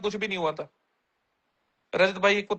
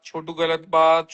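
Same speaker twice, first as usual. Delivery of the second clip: put-on mother scolding a child; 4 semitones lower, much slower than usual. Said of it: "show में शिवेत को उसकी mummy".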